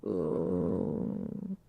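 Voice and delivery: low, droopy, deflated ooh; depressed-sounding. Pretend. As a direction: sound like you've lost all hope. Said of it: "you sound like you have depression".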